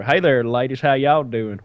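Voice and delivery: lightly drawled Southern come-on; mock Southern charmer; Southern accent. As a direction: greet the ladies like a Southern guy. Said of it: "the Southern accent was".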